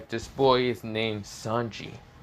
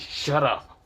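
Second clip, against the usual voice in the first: a short annoyed "Shut up." snapped a bit higher; 5 semitones higher, 3 dB louder than usual. Acted. Aika snaps at teasing Issei, annoyed. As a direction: cut him off, annoyed. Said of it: "she gets annoyed and says".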